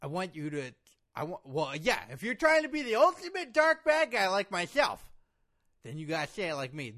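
ordinary talk, nothing marked

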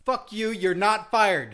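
laughingly furious refusal; mock outrage. Host refusing to let his co-host quit, mock-angry outburst.

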